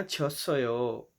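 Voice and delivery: छसयो stretched out very slowly, syllable by syllable; slow teaching demo. Shown as a demonstration. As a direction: drawl छसयो out slowly for learners. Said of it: "वो कहते हैं ना". (धीरे धीरे सिखाते हुए छसयो)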